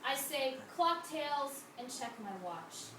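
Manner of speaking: measured poem recital with falling line endings; deliberate spoken-verse cadence; poetry reading. Acted. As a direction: read it as a poem, each line set apart by pauses.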